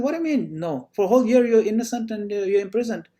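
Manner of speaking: incredulous king. Retold or imitated. King challenging his jailed minister's no, mock incredulous.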